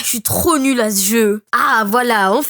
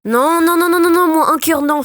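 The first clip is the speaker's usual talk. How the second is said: higher-pitched string of panicked no's; gamer's rising panic; panicked protest; 4 semitones higher than usual. Real, not acted. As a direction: protest as the game turns against you. Losing a heart mid-fight.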